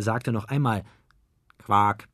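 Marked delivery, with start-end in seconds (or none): 1.6-2.1 loud, short croak; frog-like croak. A narrator's reading. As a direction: blurt it out still half a frog. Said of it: "noch halb in seiner Froschrolle". (laut herausgequakt)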